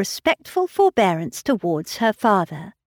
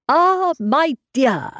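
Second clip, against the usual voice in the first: put-on slow, higher mournful old man's sigh; melancholy sigh; 8 semitones higher, 3 dB louder, slower than usual. A narrator's reading. Old father sighing to his daughter, slow and mournful. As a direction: draw it out like a grieving old father.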